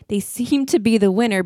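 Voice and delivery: emphasize "seem" to cast doubt on their winning; stress on SEEM. Real, not acted. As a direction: punch the word "seem". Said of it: "I'm emphasizing the word seems".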